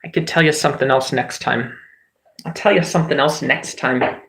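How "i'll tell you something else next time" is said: mock British accent, teasing the viewer. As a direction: repeat the line in a light British accent. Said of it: "do an accent at you".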